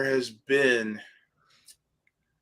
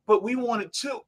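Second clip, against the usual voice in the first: put-on whiny kid; 10 semitones higher than usual. Child pleading in lunch line.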